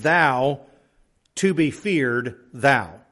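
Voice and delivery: "Thou" and the closing "thou" each set apart by pauses and leaned on; stress on thou. Shown as a demonstration. Preacher giving the literal Hebrew order to his listeners, stress on thou. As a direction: read it word for word, landing hard on "Thou" at both ends. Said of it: "literally translate them word for word".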